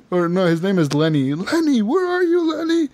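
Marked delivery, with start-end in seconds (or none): 1.3-2.9 put-on slurred, sing-song drunken yell across the bar; drunk calling out. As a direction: wail the name like a lost drunk. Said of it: "you're all slurring your words".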